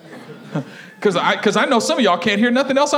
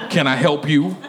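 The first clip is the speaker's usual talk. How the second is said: low, unwelcoming sass; acted low-voiced attitude; 6 semitones lower than usual. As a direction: ask as if put out. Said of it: "She had an attitude".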